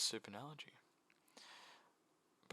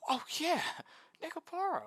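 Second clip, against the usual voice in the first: higher, louder burst as it comes back to him; sudden realization; 5 dB louder than usual. Real, not acted. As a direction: remember it all at once, out loud. Suddenly remembers the video's purpose.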